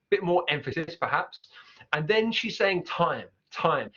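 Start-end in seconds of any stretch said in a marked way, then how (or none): 2.8-3.9 "time" with a broad Cockney vowel. Shown as a demonstration. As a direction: widen the mouth on "time". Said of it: "more of a London Cockney accent".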